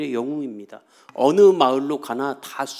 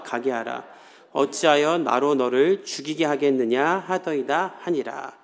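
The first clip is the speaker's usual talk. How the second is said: scripture reading; 3 semitones lower than usual. Shown as a demonstration. Reads scripture aloud.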